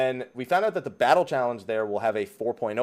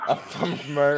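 put-on Southern accent; 2 semitones higher, faster than usual. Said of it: "Why do you sound Southern?".

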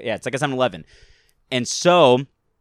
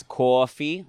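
lightly imitated New York "cawfee"; Coffee Talk accent. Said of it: "his triggering word to get him in the accent".

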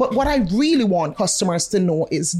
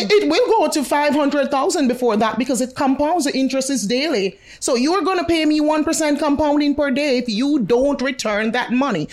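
laughing; 4 semitones higher than usual. Real, not acted. Laughing while boasting about interest.

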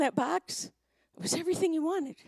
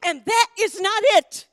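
loud, raised mock outburst of an upset boy; high, emphatic child's protest, acted out; retold tearful protest; 7 semitones higher, 7 dB louder than usual. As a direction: imitate a crying kid's indignant complaint. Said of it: "he's crying and he's crying".

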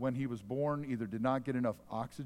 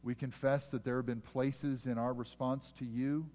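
prayer. Real, not acted. Pastor leads prayer.

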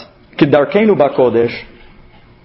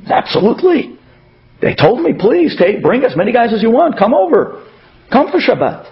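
insistent; 4 semitones higher than usual. Retold or imitated. Organizer defends himself, quoted.

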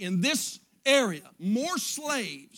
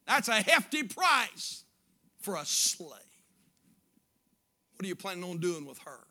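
sneering; 2 semitones lower than usual. Retold or imitated. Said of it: "the auctioneer sort of sneeringly said".

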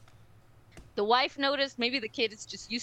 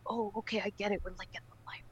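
put-on whispered child voice; a kid whispering in the library; hushed child; 10 dB quieter, much faster than usual. Child whispering to her mother on the quiet car.

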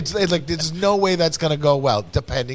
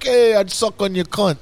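creepy come-on; 7 semitones higher, 5 dB louder than usual. Retold or imitated. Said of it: "there's a way you can say it too".

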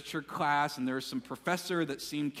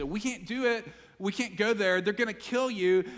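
higher-pitched urgent objection; acted alarm, voice lifted; disciples' protest; 5 semitones higher, 4 dB louder than usual. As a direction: push back in raised pitch. Disciples pushing back, retold as dialogue.

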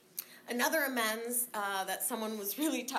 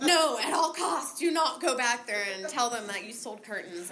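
retold warning; 8 dB louder than usual. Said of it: "He was like".

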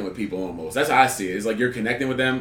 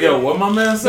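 loud, high mock bewilderment; mock confusion; 8 semitones higher, 7 dB louder than usual. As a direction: act the baffled onlooker, loudly. Acting the confused onlooker.

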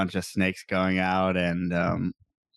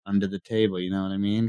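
put-on New York mobster-style accent; faster than usual. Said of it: "New York accent voice?".

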